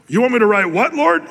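mock protest, rising high at the end; incredulous Moses. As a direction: voice jumps up in disbelief on Lord.

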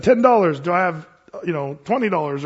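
loud falling call of Ten dollars; auctioneer's call. Retold or imitated. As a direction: sell it like an auctioneer, punching Ten. Auctioneer calling the bid.

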